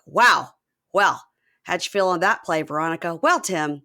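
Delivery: punchy mock sportscast; color commentators. Sports commentators trading reactions to a play, mock announcing. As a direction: lightly parody a commentary handoff. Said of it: "the color commentators".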